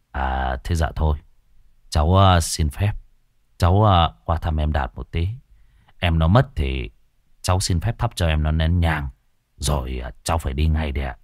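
low, awkward hurried excuse. Acted. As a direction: mumble an excuse to slip away.

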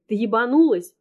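loud furious yell; angry shout at a friend. A narrator's reading. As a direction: yell at her, losing control. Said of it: "Срываюсь на крик".

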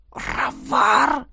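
hushed recognizing gasp; shocked whisper. A narrator's reading. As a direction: breathe the name in shock. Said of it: "прошептал демон".

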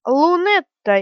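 loud, high angry shout of her name; furious yell. A narrator's reading. Brother yelling at his sister in fury. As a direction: bellow it in rage. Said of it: "яростно завопил Броган".

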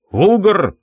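high-pitched summoning call. Acted. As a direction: call sharply for your servant. Master calls out for servant.

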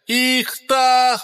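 loud, high alarmed shout. A narrator's reading. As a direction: yell out the warning. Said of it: "выкрикивая".

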